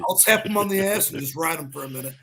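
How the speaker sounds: hammed-up sneaky ref; mock ref voice. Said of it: "He's like, he's like".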